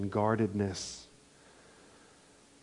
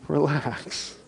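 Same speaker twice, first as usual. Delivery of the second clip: just relax; 5 semitones higher, 3 dB louder, much slower than usual. Shown as a demonstration. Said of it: "And it's like, just relax".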